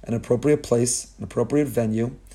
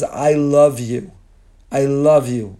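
tender parent; 4 dB louder, much slower than usual. Acted. Parent reassures child before grounding, tender and loving. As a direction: say it like holding your child close.

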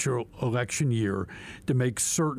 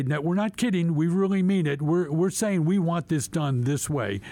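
facetious mock insistence; 5 semitones higher than usual. Lawmaker voicing the bill to the courts, mock-earnest. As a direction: ham up the insistence, tongue in cheek. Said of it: "I'm obviously being a little facetious".

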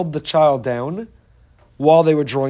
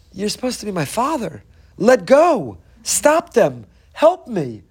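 pleading with God; 4 semitones higher than usual. Retold or imitated. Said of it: "sometimes it feels like".

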